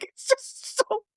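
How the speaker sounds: helpless high-pitched laughter through the words; bursting out laughing. Real, not acted. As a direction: try to talk while cracking up. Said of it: "makes me burst out laughing every time".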